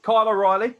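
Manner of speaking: names called out high and loud like an announcer; hype shout. Pretend. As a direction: bellow each name to the crowd.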